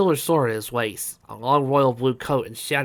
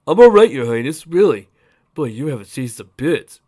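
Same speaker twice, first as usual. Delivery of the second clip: Rudder voice; 10 dB louder than usual. A narrator's reading.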